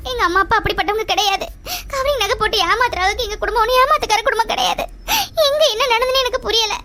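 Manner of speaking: crying while protesting the family's innocence; tearful pleading. Acted. Roja swears to Aravind that her family isn't cheating, tearful. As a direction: plead through tears. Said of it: "இப்ப எதுக்கு அழுற?".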